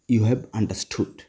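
each word stretched, stress on you; slow, drawn out. Shown as a demonstration. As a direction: say it slowly like a teacher checking. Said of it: "slow English drill". (খুব ধীরে টেনে টেনে বলা)

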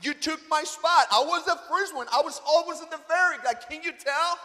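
retold yelling. Man yelling at the lady who took his spot, indignant. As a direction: protest indignantly, pushing each claim. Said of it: "when I was yelling to the lady".

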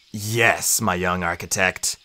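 quiet, understated warmth; gentle agreement. A narrator's reading. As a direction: confirm it tenderly to a pupil. Daedalus gently confirms his death.

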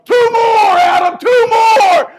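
high, loud, slow drawn-out yell; coach yelling. Retold or imitated. Coach pushing Adam through final reps, loud slow yell. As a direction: drive him through the last reps.

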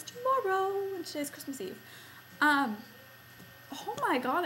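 talking through hiccups; hiccuping between words. Real, not acted. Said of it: "I keep hiccuping".

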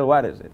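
"What is it" run together as "wáresit"; learned linking. Shown as a demonstration. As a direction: say "What is it" as one word, tapped r for t. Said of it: "al final ya te sale el".

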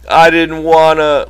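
high, loud whimpering protest; distressed cry. A narrator's reading. Lenny after crushing Curly's hand, distressed cry. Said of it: "Lenny cried".

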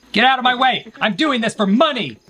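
charging yell for the money; excited shout. Real, not acted. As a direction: yell it while sprinting for the cash. Rushing for the donation bet.

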